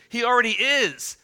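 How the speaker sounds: loud, high burst on already; emphatic. Real, not acted. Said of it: "emphatic correction".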